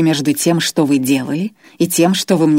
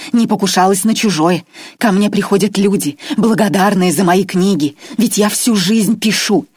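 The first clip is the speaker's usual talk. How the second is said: higher, louder self-justifying plea; wounded Irma; 4 semitones higher, 4 dB louder than usual. Acted. Irma pleads her decency to the captive, wounded. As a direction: insist on being good, hurt.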